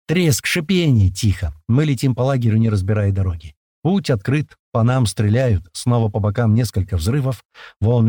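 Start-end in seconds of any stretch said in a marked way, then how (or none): none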